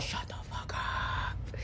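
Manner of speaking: harsh whispered curse instead of a yell. Retold or imitated. Whispering a curse at the voices in her head. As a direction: hiss it under the breath, unvoiced. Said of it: "I literally yelled out loud".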